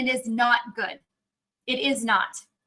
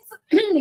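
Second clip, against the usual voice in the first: clearing a froggy throat; a quick clear of the throat; 8 semitones higher, 5 dB louder than usual. Real, not acted. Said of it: "I have a frog in my throat".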